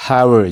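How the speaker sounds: "how are" blended into "how-er"; dropped A. Shown as a demonstration. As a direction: run "how are" together, losing the A of "are". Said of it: "A keessaa baasnee pronounce goone". (A keessaa baasuun walitti hidhi)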